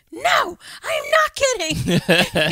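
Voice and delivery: slow, high, loud mock dad insistence; dad insisting. Dad answering daughter about Viagra, mock insistent. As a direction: draw it out like a dad dead serious. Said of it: "And he's like".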